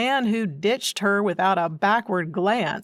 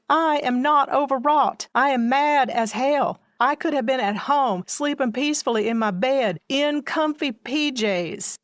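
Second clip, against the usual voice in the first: mad outburst; 5 semitones higher than usual. Acted. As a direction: vent hard at Irma. Angry outburst at Irma.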